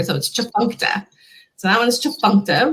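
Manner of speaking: chifuncta with a k sound before "tuh"; teaching repeat of chifuncta with "nk"; hard middle sound. Shown as a demonstration. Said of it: "that harder sound between the".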